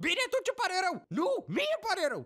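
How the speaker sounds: high, testy mock apology; acted bickering. Couple apologising mid-quarrel, mock irritated. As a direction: trade apologies as if still fighting.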